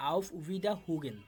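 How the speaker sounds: auf Wiederhugen stretched out slowly, syllable by syllable; teacher slowly sounding out auf Wiederhugen; slow model pronunciation. Shown as a demonstration. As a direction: say auf Wiederhugen slowly so learners can copy. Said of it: "শুধুমাত্র আমি উচ্চারণ করে দিচ্ছি".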